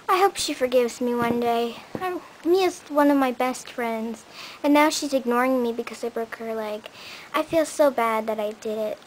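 low, subdued guilty confession; softly regret hurting a friend; remorseful. Acted.

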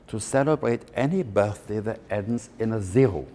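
a hint of a German matriarch; German accent. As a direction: put on a German accent for the old aunt. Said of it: "if I try and do a German accent".

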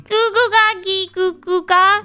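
mock baby babble; baby talk. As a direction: babble like a toddler. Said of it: "You sound like a baby".

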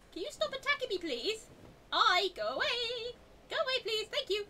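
loud, high, wailing plea; high-pitched pleading. Real, not acted. Gamer begging attackers to go away, high exasperated plea.

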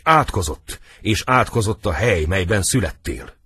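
emphatic stage malediction; theatrical curse. Acted. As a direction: declaim it as a damning curse. Acted curse in a drama.

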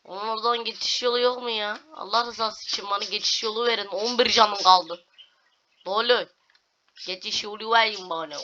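high desperate begging; pleading. Real, not acted. Gamer begging the game for a way through.

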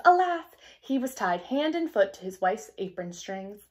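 put-on expressive read-aloud for children; storybook narration. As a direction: tell it like a bedtime fairy tale. Teacher reads fairy tale aloud.

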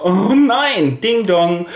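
a mother panics over her daughter, high and loud; hammed-up dismay. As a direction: throw up your hands in mock despair.

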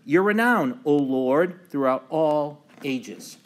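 emphatic liturgical recitation, rising and falling; psalm reading. Acted. Pastor opening Bible study with the introit, emphatic psalm reading. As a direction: read scripture out to the congregation in measured phrases.

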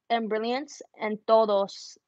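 Spanish words with a French accent. Real, not acted. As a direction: let a French accent slip in. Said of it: "That was so a French accent".

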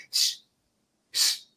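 soft shushing to calm the birds; whispered shh to settle the doves; hushing. Retold or imitated. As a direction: hush them quietly. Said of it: "Nomás le decía".

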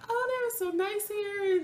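high, slow, drawn-out gushing; high-pitched gushing. Retold or imitated. Patient marvelling at kind staff, slow high-pitched gushing. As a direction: stretch the praise out way up high. Same retold praise, drawn out.

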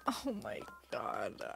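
slow, low whisper; stunned whisper. Real, not acted. Streamer reeling from finding Chops, stunned whisper. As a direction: whisper it, drained of voice. Drained after the upsetting find.

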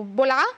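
"بلعة" for bisor'a, the S and R dropped; mispronounced child word. Retold or imitated. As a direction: imitate a child's shortened "بلعة". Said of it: "الكلمات بينطقها غلط". (نطق مختصر غلط "بلعة")

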